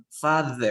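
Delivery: "Father" with a buzzing th; tongue between the teeth in the middle of "Father"; voiced TH demo. Shown as a demonstration. Teacher models that sound for Xiomara, voiced TH demo. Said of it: "Ese sonido".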